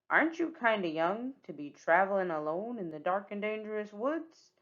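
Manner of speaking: lightly voiced villain, questioning; pirate Captain Hook. Hook asking Red about traveling alone, probing. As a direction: probe with a hint of pirate.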